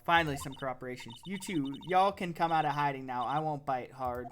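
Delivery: put-on Southern accent. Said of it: "like, Southern bumpkin type".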